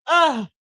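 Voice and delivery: loud, high "ugh"; fed-up groan; exasperated groan. Real, not acted. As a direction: groan it out in frustration. End of frustrated rant.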